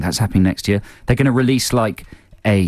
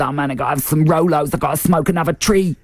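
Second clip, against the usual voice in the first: stoner street talk; 8 semitones higher than usual. Acted. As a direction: play a stoned dude craving snacks. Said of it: "It's just street talk".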